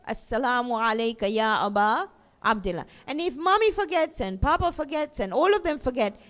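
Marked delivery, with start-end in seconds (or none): none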